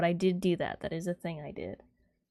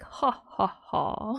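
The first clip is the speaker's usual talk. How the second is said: hearty laugh; 2 semitones higher, much slower than usual. Retold or imitated. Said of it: "the full-on, like".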